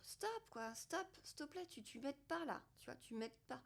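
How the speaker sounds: mildly exasperated, acted self-talk; telling off the mind. Telling her own mind to stop, mildly exasperated. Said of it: "je dis à mon mental".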